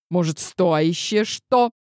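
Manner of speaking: стоящее stressed on the first syllable, СТО-ящее, slow. Shown as a demonstration. Granny correcting the word стоящее, stress on СТО. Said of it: "Ударение в слове «стоящее» на первый слог".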